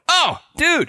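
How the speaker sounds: California dude. Retold or imitated. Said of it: "That's how we all talk".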